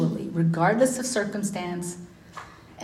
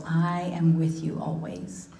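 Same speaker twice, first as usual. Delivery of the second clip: whispered promise. Acted. Scripture quote whispered.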